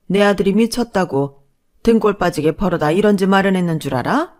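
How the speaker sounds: a hint of a haughty mother-in-law scolding. Mother-in-law scolds the new daughter-in-law, haughty and harsh. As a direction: look down on her and scold.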